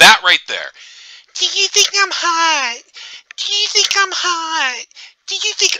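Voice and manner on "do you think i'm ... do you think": very high, grating, annoying taunting voice. Mocking a woman in a video asking if she's hot: mocking her annoying voice. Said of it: "your voice is so fucking annoying".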